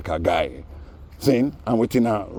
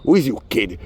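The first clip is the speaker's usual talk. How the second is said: mock challenge; 4 semitones higher, 5 dB louder than usual. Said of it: "the singer came out".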